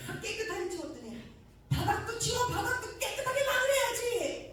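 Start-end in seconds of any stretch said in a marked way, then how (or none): 1.7-4.5 high, loud order; divine command. Retold or imitated. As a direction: order it from above, no argument. Spirit ordering floor cleaned.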